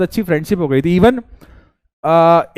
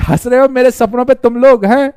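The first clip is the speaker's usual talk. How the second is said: mock wounded outburst; 5 semitones higher, 4 dB louder than usual. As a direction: play the hurt dreamer, overacted. Mock-hurt outburst at laughing students.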